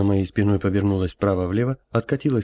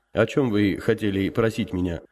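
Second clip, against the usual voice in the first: quieter human voice. Acted. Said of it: "Голос старца теперь стал уже более тихим и человеческим".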